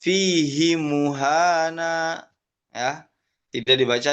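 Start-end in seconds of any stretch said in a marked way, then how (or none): 0.0-2.3 Fihi muhana drawn out and careful; recited slowly. Shown as a demonstration. Teacher answers her own question with a slow recitation. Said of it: "Bacanya apa?".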